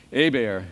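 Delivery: Hebert as "AY-bear", no H; silent H. Shown as a demonstration. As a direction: say Hebert Louisiana French style, "AY-bear". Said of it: "silent H and an accent on the E".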